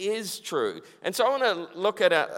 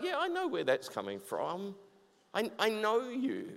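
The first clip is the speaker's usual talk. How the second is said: softly spoken, knowing comfort; gentle reassurance; 9 dB quieter than usual. Acted. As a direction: drop to a quiet, understanding reply. God reassures the anxious speaker.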